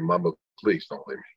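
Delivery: understated plea to a mother; mild, low-voiced imitation of begging; retold pleading. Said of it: "I remember this kid begging".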